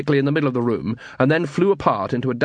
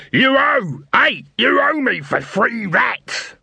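yelling; 11 semitones higher, slower than usual. Acted. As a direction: holler after the fleeing dwarf. Dibbler yelling after Cuddy.

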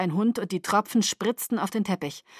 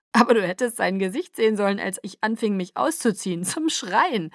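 glucksend. Acted. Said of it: "gluckste Jacob".

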